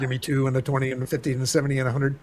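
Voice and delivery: fast auctioneer patter. Retold or imitated. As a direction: rattle off the bids quickly. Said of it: "It's like an auctioneer service".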